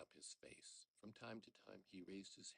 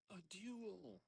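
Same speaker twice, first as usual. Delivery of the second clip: high, loud yell; 12 semitones higher, 5 dB louder than usual. Acted. Old father yelling at his son, loud and high. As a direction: bellow the word out. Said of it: "yelled the old wretch again".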